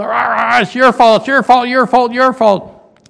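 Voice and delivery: mock crowd jeering your fault; complaining crowd. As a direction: pile on the blame like an angry mob. Grumbling crowd blames Moses.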